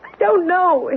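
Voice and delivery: rising panic, pleading to leave; agitated. Acted. Frightened wife begging her husband to leave, agitated. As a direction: voice climbing as she loses her nerve. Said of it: "getting increasingly agitated".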